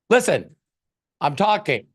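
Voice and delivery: stern judge snapping for silence; Judge Judy snapping. Retold or imitated. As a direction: cut them off sharply. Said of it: "she looks at you and goes".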